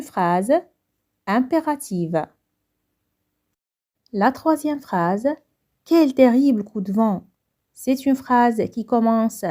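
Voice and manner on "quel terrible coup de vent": exclamation. Shown as a demonstration. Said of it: "déterminant exclamatif".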